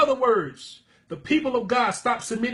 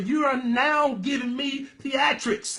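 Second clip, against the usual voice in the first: preaching shout; 4 semitones higher, slower than usual. Real, not acted. Preacher scolding showy worshippers.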